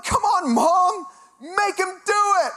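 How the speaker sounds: very high, drawn-out mock wail; whiny pleading. Broker begging mom to make Juan act, wailing. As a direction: beg like a desperate kid, hammed up.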